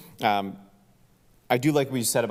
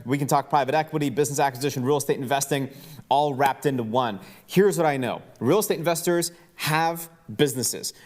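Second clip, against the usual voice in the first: upbeat event plug, pitched higher than his chat; event promo read; 3 semitones higher than usual. Acted. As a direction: hype the listeners up to come to Houston. Event promo read over music.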